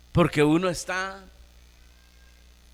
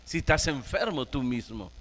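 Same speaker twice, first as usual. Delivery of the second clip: softer, a hint of a sly whispering tempter; lightly voiced devil sowing doubt; preacher lightly voicing Satan's doubts to the sick leader, softer; tempting Satan; 4 dB quieter than usual. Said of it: "diciéndole".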